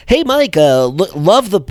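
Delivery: lightly mocking, eager business voice; corny networker. Corny messager pitching the podcaster on LinkedIn, mock networker voice. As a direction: imitate a LinkedIn messenger. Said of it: "this is the voice that I s-, think they sound like".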